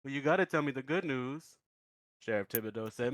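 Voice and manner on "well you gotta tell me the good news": mock anguished wail. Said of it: "burst into tears".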